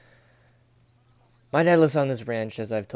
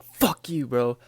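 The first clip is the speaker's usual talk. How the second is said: retold cussing out; 2 semitones higher, slower than usual. Cussing out the tractor alone in the field, angry snap. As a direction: curse it out in frustration. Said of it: "I started cussing the crap out of it".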